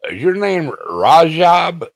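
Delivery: put-on high, drawn-out old lady voice; imitated old lady. Prankster taunting a scammer by name, imitated old lady voice. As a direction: put on a loud, slow granny pitch. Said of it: "makes him sound like an old lady".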